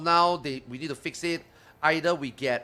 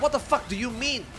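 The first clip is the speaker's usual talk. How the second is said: retold comeback; 8 semitones higher, 6 dB louder than usual. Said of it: "I'm like".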